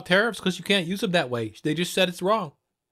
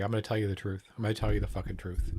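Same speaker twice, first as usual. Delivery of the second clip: angry; 8 semitones lower, 7 dB quieter, much faster than usual. Real, not acted. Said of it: "Here's why I'm angry".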